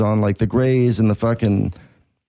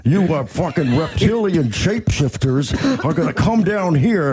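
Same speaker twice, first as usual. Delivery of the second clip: lightly voiced wrestler promo; Hulk Hogan voice; 4 semitones higher than usual. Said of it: "That's Hogan".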